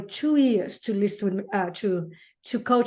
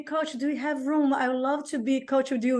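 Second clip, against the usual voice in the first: quoting the text; 3 semitones higher than usual. Retold or imitated. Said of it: "you texted me".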